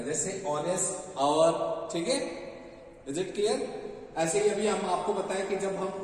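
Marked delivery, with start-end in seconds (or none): 0.5-1.5 "ऑनेस्ट, आवर" both without an h; silent h. Shown as a demonstration. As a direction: start "ऑनेस्ट" and "आवर" on their vowels. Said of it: "ये एच silent होता है".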